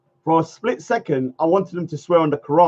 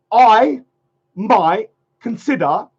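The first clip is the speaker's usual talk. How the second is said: a big announcement that gets cut short; mock solemn vow; 3 semitones higher, 3 dB louder, slower than usual. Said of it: "I'm not saying it".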